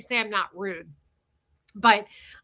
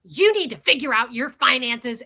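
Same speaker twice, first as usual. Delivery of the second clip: retold yelling; 7 dB louder than usual. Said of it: "she starts yelling at him".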